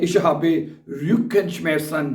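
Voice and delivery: very slow, every German word spelled out for learners; slow dictation. Shown as a demonstration. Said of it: "तो आप कह सकते हैं".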